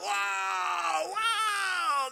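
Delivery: high, loud thrilled whoops; excited boys. Retold or imitated. Preacher mimicking boys leaping off cliffs, high excited whoops. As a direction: whoop like a fearless kid. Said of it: "They are just like".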